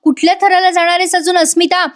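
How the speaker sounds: a retold father losing patience with his daughter; understated angry questioning, pitch climbing; irritated father. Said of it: "Prataprao चिडून म्हणतात".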